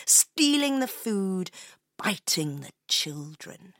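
slow, dramatic storyteller; story narration. A narrator's reading. Telling Leo of a town overrun by rats, dramatic narration. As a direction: draw out the growing menace of the rats.

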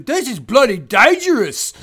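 loud, high, slow hammed-up yell; panicked pilot impression. Podcaster imitating man in bombing plane, hammed-up high shout. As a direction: stretch it out like an alarmed British airman. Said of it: "guy that's in the plane just goes".

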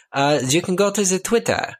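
put-on playful German-accented announcer. Host giving listeners the Twitter address, in a German accent. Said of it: "the host's gone German".

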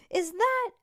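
high, loud shocked gasp of a question; sudden alarmed question. Acted. Stink shocked to see his fish.

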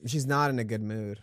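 dry, sassy game NPC. Pretend. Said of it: "The sass".

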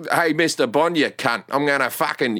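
casual, rough-mannered Australian movie character; Australian accent. Acted. Australian villain insulting Mister Bond, broad Australian accent. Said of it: "But if there's an Australian".

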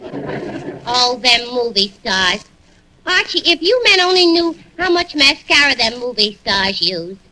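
a touch of a mocking dame, drawn out; lightly voiced sassy barmaid; brassy Miss Duffy. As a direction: list the cosmetics with scorn.

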